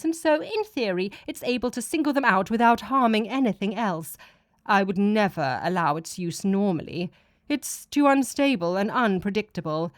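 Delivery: a hint of a lofty deity laying out the plan; god explaining.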